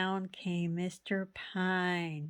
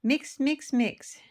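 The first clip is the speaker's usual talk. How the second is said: eager mixing; 5 semitones higher, 4 dB louder than usual. Acted. Mister Pine mixing his paint.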